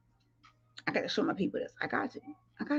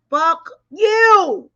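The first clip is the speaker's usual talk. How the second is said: louder, higher punch on the last words; emphatic punchline; 6 semitones higher, 8 dB louder than usual. Real, not acted. Rejecting his boast with a loud, high punch. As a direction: land the refusal hard.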